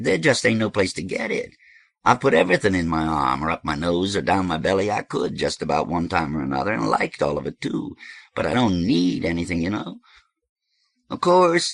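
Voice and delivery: lightly voiced, emphatic confession; lively host justifying himself; animated dope host. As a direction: insist on it, punching key words. Voices Thirteen in story.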